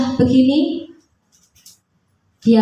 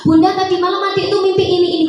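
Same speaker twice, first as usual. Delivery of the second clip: a hint of an eager small daughter, quick and higher; excited little girl; 7 semitones higher, much faster than usual. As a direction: rush to tell mum about a dream. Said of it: "putri saya yang kecil itu suka". (anak kecil bercerita mimpi dengan antusias, ditiru ringan)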